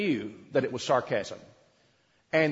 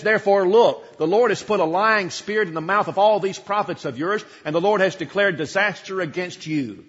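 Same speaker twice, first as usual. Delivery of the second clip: louder, pointed, accusing declaration; bold pronouncement; 3 semitones higher, 5 dB louder than usual. Acted. Micaiah pointing at the prophets, loud and accusing. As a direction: jab a finger at them and declare it. You can see him point his finger.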